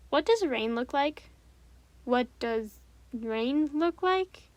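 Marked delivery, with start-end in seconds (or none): 2.0-4.5 very slow, drawn-out repeat; slow puzzled echo. Acted. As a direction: repeat it slowly, thinking it over. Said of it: "Anthony repeats it slowly, puzzled".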